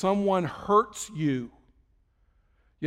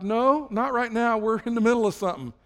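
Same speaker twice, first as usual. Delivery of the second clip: higher-pitched, insistent no; God firmly refusing; 5 semitones higher, 3 dB louder than usual. Acted. God refusing to end the talk, firmly insistent. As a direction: draw out the no, then brush past.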